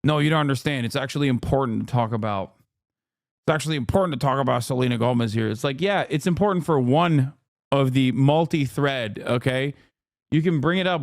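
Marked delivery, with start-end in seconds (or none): 0.0-5.5 quick, lightly mocking online commenter; mocking imitation. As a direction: mimic a smug commenter, fast. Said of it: "before people jump to this, like".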